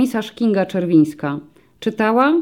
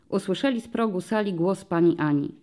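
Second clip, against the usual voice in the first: ordinary delivery, nothing marked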